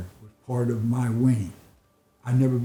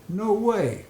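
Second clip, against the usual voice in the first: high retold cry of disbelief; mock outrage at the price; a lightly imitated shocked no way; incredulous; 8 semitones higher than usual. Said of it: "I said".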